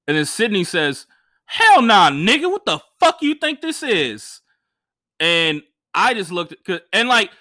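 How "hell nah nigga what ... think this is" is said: loud, high furious retort; angry yell. Retold or imitated. Promoter snapping at the comic, angry. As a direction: bark it at him like you're insulted. Promoter angrily confronting him.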